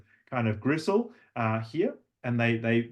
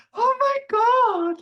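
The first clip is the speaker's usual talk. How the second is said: much higher, slow, louder gush; 7 dB louder, much slower than usual. Shown as a demonstration. Coach imitating a Valley Girl gushing, much higher. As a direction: swoon over it like a Valley Girl. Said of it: "as if you were gushing".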